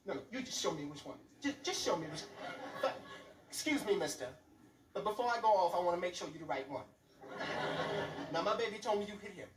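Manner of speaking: mother at school, lightly voiced barely held fury; mock furious mother. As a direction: sweetly threaten the teacher. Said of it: "she was like, she was furious".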